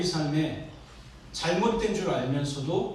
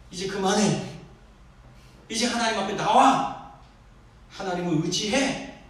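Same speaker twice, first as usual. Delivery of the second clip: raised, firm appeal as God; urgent calling out; 4 semitones higher than usual. Acted. Preacher as God urging Adam to come back, firm raised appeal. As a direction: plead firmly, a step down from shouting. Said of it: "하나님이 외쳤을지도 모르겠어요".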